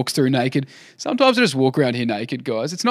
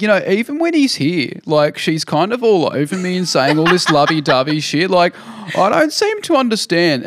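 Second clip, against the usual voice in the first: higher, louder mock lad voice; imitating Nathan; 6 semitones higher, 4 dB louder than usual. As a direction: ham up Nathan bragging in his interview. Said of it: "saying, like".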